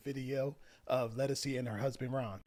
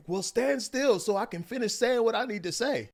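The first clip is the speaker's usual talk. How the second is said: high, louder insistent comeback; acted loud arguing; 8 semitones higher, 5 dB louder than usual. Wife answers husband who is walking away, acted exasperated. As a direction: play the wife arguing back. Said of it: "this fight got loud".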